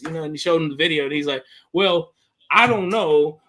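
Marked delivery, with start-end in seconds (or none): 1.7-3.4 drawn-out mock hedging; evasive. Host imitating a man shown the video, evasive. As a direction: stretch each word like someone stalling. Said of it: "tap dancing around the question".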